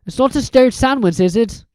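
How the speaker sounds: a touch of worry; Harry asks Hagrid warily, mildly anxious. Acted. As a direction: tease warily. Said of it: "said Harry anxiously".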